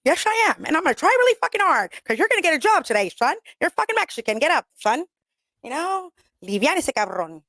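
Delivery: high, lively mock coaching of a homeboy; mock pep talk. Talking to a lazy homeboy, high hammed-up pep talk. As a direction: gee him up to get up and work. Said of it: "I'm like".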